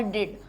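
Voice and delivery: last syllable डिड said on its own. Shown as a demonstration. Teacher counting syllables for students, syllable by syllable. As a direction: isolate डिड as one beat. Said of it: "तो यानी one और टू".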